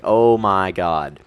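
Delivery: slow, drawn-out groan of aching legs; exhausted groan. Retold or imitated. To viewers about sore legs, a slow aching groan. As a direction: drag it out like your thighs are wrecked.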